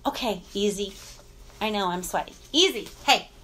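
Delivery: low, soft settling voice; calming the dog. Real, not acted. Owner easing off an excited, licking dog, calming. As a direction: drop low and quiet to settle a pet.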